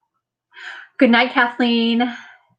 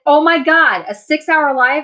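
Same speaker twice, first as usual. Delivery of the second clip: louder, higher retold incredulity; mock disbelief; 6 semitones higher, 5 dB louder than usual. Friend teasing her about the live, retold disbelief. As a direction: imitate a friend's teasing astonishment. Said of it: "was laughing at me. She's like".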